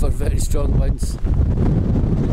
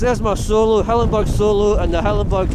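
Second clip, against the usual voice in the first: raised voice over wind; 6 semitones higher than usual. Real, not acted. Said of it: "Start again".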